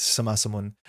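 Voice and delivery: Sama Samun with no k, as suh-ma sa-moon; silent K. Shown as a demonstration. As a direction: say Sama Samun smoothly and open. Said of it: "put that through the I P A".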